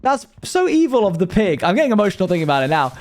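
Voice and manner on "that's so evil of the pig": mock-upset outcry. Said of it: "stopped and was like".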